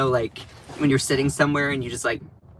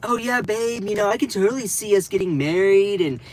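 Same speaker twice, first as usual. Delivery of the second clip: mock lovey poser; 4 semitones higher than usual. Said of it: "that poser".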